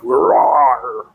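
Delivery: drawn-out mock Nordic roar; playful roar. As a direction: let out a rolling pretend roar.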